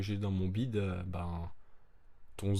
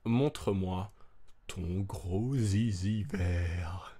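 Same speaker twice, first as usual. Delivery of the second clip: donkey voice; much slower than usual. Acted. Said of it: "Et moi, je suis l'âne".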